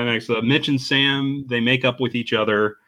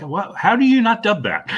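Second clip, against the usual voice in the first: incredulous; 10 semitones higher than usual. Retold or imitated. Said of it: "I'm just like".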